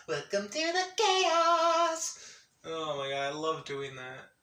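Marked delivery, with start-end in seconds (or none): 0.1-2.2 very high, drawn-out singsong cry; movie-style announcement. Acted. Quoting a movie about the chat, high and wailing. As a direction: soar up and hold the last word. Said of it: "It is the legit Welcome to the Chaos".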